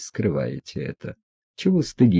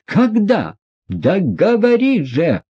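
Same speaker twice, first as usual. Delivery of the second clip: much higher, slower, pressing insistence; urgent demand; 11 semitones higher, 4 dB louder, slower than usual. A narrator's reading. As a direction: force the answer out of him. Лизавета требует ответа. (нетерпеливо требует, намного выше)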